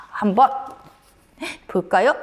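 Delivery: ordinary delivery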